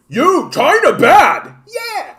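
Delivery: high, loud mock chant; mock cheering. Canada mocked as a sidekick, high and loud. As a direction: parrot the slogan like a toady.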